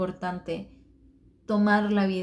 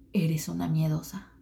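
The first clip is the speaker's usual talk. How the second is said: whispered taunt; 2 semitones lower than usual. Retold or imitated. Whispered quote.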